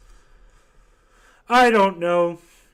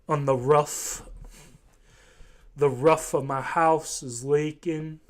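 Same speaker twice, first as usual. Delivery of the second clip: put-on slow Kentucky accent saying "rough" for roof; mock Kentucky accent. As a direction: lightly mimic a rural Kentucky speaker, slowly. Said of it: "such a weird Southern accent".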